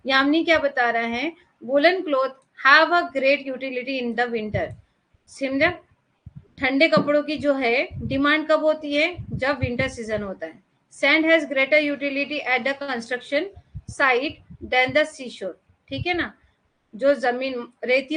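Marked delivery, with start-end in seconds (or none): 1.6-4.7 words spaced out very slowly for note-taking; teacher dictating, very slow and even; slow dictation. Shown as a demonstration. Dictating a definition. 11.0-15.5 words spaced out very slowly for note-taking; teacher dictating, very slow and even; slow dictation. Shown as a demonstration. Dictating example sentence.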